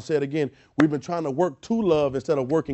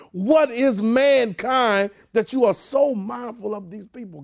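higher, building disbelief; incredulous angels; 8 semitones higher than usual. Acted. Angels asking God why he bothers with man, incredulous. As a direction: question God in astonishment, stretching the final question. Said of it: "Who the angels asked him".

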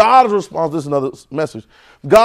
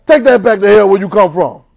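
defiant retort. Retold or imitated. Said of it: "I'm gonna say".

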